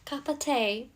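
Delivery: playful put-on British-style accent; bad accent. Repeating the joke for viewers, badly faked accent. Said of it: "I'm really bad with accents".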